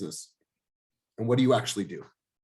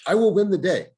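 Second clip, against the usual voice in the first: louder and higher, a rallying declaration; emphatic repeat; 6 semitones higher, 6 dB louder than usual. Real, not acted. Coach firing up his agents, rallying declaration. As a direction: hammer the line home the second time.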